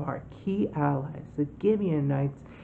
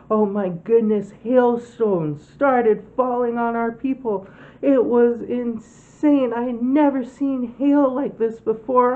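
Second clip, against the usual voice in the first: higher, louder, caught up in the terror; excited retelling; 5 semitones higher, 4 dB louder than usual. Acted. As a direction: relive the hailstorm breathlessly. Dramatic hailstorm retelling.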